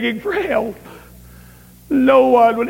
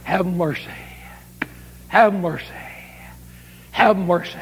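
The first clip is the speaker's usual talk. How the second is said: plaintive cry; 5 semitones lower, 6 dB quieter than usual. Retold or imitated. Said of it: "the plaintive cry of that mother".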